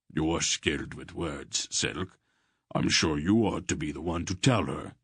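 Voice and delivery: teasing, gruff humour; lightly voiced Barak.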